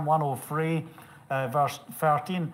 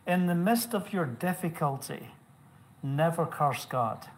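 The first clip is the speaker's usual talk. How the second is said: measured preaching. Real, not acted. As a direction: deliver it as a solemn, restrained message. Preacher delivers message, measured first.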